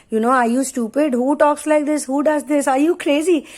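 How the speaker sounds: mild mock scorn, rising in pitch; mocking disbelief. Masculine ridiculing the feminine for her feelings, mildly mocking. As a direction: imitate someone scoffing in disbelief. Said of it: "He mocks her".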